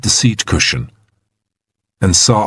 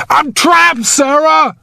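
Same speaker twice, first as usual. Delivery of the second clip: high, panicked cry; slower than usual. A narrator's reading. Trapped man interrupts rescuer's reassurance, panicked. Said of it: "Now there was panic".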